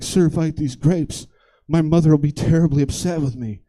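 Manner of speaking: lightly voiced polite child; a hint of a prim little kid; well-spoken kid. Kid declining a stranger's grapes, lightly voiced politeness. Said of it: "and the kid's like".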